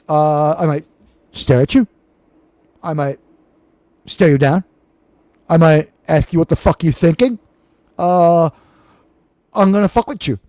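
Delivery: halting, lightly put-on Latino accent; menacing Latino accent with long pauses. Shown as a demonstration. Host warning what he might do, attempted Latino accent. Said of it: "as much of a Latino accent as I can do".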